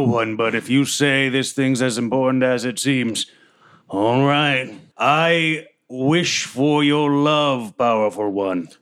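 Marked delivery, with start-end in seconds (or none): 5.0-8.7 slow, earnest devotion; solemn vow. Acted. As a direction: speak as if kneeling to royalty. Ranger bows to badger.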